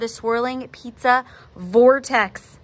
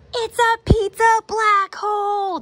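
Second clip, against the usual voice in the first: high, loud, slow panicked shout; father yelling in alarm; 13 semitones higher, 6 dB louder, slower than usual. A narrator's reading. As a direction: shout it to your son as the pizza collapses. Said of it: "Dad shouted".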